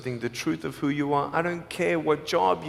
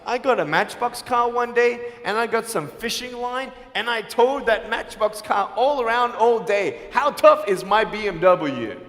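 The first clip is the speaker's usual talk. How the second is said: mock bragging; 3 semitones higher than usual. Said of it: "I would sound so stupid if I said".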